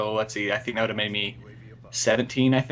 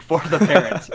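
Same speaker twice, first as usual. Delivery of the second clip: odd pitch break; 6 semitones higher, 8 dB louder than usual. Real, not acted. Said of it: "Wow, that sounded weird".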